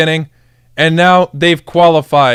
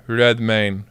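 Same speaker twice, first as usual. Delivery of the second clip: low, hushed name-drop of Redmayne; quiet awe; 8 semitones lower, 7 dB quieter than usual. Real, not acted. Streamer marvelling at the super sub, quiet awe.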